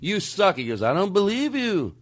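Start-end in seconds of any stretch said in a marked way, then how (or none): 0.0-0.6 a singer's twang. Retold or imitated. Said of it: "a little twang to my voice". 0.8-1.9 bad impression of a singer. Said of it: "bad impersonation of a singer".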